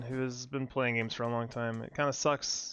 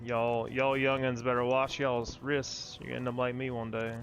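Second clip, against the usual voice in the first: lightly put-on Southern accent of a grumpy old gamer; old Southern man. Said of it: "I'm a southern accent when I'm old".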